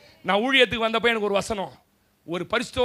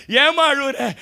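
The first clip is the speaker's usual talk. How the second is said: father's question; 4 semitones higher, 5 dB louder, much slower than usual. Acted. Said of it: "அப்பா கேட்பார்".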